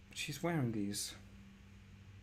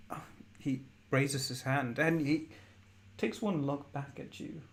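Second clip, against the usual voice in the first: usual speaking voice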